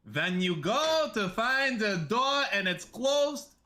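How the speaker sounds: high, drawn-out Jewish accent; put-on Jewish accent. Shown as a demonstration. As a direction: show off an exaggerated Jewish grandpa accent, slowly. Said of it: "That's a good Jewish accent".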